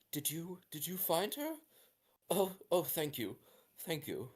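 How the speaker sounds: put-on a mother near tears begging her child; frantic mother. Mother asks the rescuers.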